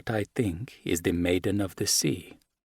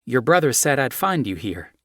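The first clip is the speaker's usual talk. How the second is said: put-on lightly higher, friendly American girl; young American woman; 4 semitones higher, 4 dB louder than usual. Ruby telling Luciano his brother sent her, lightly higher. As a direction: explain cheerfully why you came.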